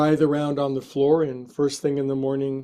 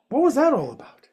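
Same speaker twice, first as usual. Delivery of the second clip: much higher-pitched, incredulous question; high-pitched talking-to-a-cat voice; baffled cat-talk; 11 semitones higher than usual. Real, not acted. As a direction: ask the pet in a high, puzzled voice. Asks cat about sudden attack.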